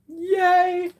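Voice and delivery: squealed high little yay; bright burst of joy; excited cheer. Real, not acted. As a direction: cheer it out, delighted.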